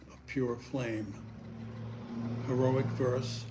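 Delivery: measured reading, verse broken by pauses; poem recitation. Acted. Poet reads a poem about the past, measured recitation. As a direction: recite it phrase by phrase, letting each image land.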